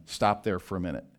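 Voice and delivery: normal talking voice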